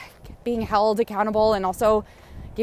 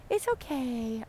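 hushed reassurance; 11 dB quieter, slower than usual. Real, not acted. Easing past a nervous goose, soft hush.

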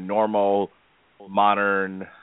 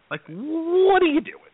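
much higher and slower, in mock disbelief; incredulous; slower than usual. Mocking a faux British accent, in high incredulous disbelief. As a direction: throw the question up high in disbelief.

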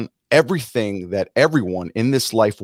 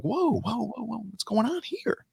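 surprised whoa; 11 semitones higher, 6 dB quieter than usual. Retold or imitated. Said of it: "And I'm like".

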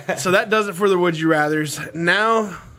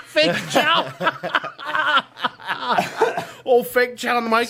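hiccup giggles; 5 semitones higher than usual. Real, not acted. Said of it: "Stop making me laugh".

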